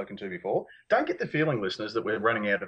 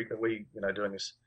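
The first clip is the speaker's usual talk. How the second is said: muffled behind a hand; talking behind hand; 6 dB quieter than usual. Real, not acted. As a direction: hand over mouth, hushed. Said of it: "Sorry, I'm talking behind my hand".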